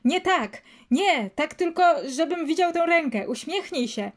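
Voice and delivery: high-pitched, fussy ordering; exasperated commands without full volume; impatient mock shout. A narrator's reading. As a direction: correct the pose with acted impatience. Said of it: "krzyknął".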